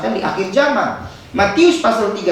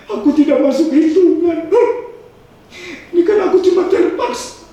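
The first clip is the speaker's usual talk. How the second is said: mock lament; 8 semitones higher than usual. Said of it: "Sambil dia nangis".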